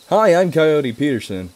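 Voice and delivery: a light take on an enthusiastic TV nature host greeting; Coyote Peterson. Retold or imitated. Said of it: "He's a cool guy".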